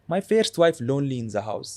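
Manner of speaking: put-on broken-English father character accent; lightly voiced old father with a heavy accent; Abu Zubair accent. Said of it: "He has an accent".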